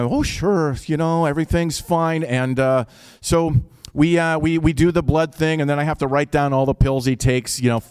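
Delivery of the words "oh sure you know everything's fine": lightly voiced Minnesota nurse; a touch of Fargo-style Minnesota accent. Nurses reassuring a patient, light Minnesota accent. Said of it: "the nurses and the".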